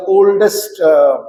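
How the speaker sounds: wry sarcasm, pitch lifting on "friends"; sarcastic. Real, not acted. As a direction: say "friends" as if in air quotes. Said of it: "using this very sarcastically".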